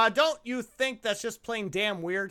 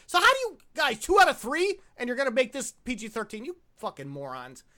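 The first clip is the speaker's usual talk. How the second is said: higher-pitched, incredulous griping; exasperated rant; 3 semitones higher than usual. Real, not acted. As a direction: rant at the studio in disbelief. Exasperated rant at the studio's rating.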